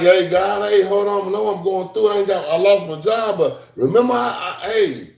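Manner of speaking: high, pleading cry to God; pleading prayer. Pretend. Man in trouble pleading with God, high and earnest. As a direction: beg God for help.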